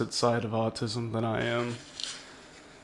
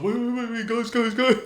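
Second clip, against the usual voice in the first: calling after; 10 semitones higher than usual. Retold or imitated. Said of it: "catching up".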